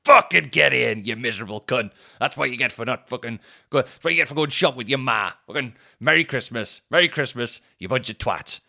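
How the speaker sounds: loud triumphant gloating; loud victory gloat at the shoppers; gloating yell. Retold or imitated. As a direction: crow over the beaten man. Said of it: "And I was just like".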